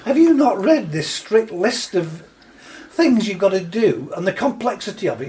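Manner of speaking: high, incredulous scolding with a laugh; exasperated apostle. Retold or imitated. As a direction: voice Paul as baffled at their folly. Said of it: "He said".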